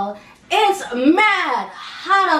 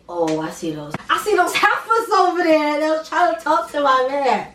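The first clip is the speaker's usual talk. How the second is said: put-on sassy, side-eye tone toward the girls; attitude. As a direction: throw shade at the rival girls. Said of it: "my attitude was, like, on an all-time high".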